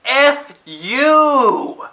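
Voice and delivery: high, loud mock shout at the screen; angry outburst. Reviewer yelling at the film when Batman dies, loud and high. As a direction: yell it like the movie just betrayed you. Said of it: "and I'm thinking".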